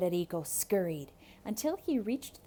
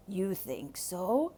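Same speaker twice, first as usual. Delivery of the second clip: wolf voice; slower than usual. Acted. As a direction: answer slyly as the wolf. Wolf replies.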